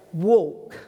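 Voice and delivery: loud, firm one-word command; sudden forceful order to a man; bold command. Acted. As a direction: speak it out in faith. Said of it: "in faith, speaks it out".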